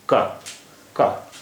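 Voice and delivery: का as k plus short open a; k with vowel. Shown as a demonstration. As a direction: let the vowel sound after k in का. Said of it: "एक vowel आ गया".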